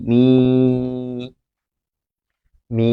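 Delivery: মি said short and repeated; teacher demo of a short মি; syllable drill. Shown as a demonstration. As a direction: clip মি short, twice. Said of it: "ম হর্ষন্ত যোগ রস্ব ই".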